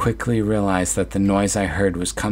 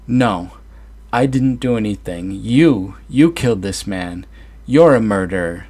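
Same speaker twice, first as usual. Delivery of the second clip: forceful; 3 semitones higher, 6 dB louder than usual. Acted. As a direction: stand your ground and accuse her. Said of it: "I stood my ground forcefully".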